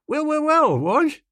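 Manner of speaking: put-on bright, high hail of a chummy young toff; cheery greeting. Bertie hails Muriel in the restaurant, breezy and high. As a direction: sing out a hearty hello to an old friend.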